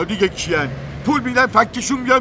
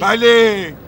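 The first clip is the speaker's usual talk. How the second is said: angry; 5 dB louder, much slower than usual. Acted. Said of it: "عصبانی شدی؟".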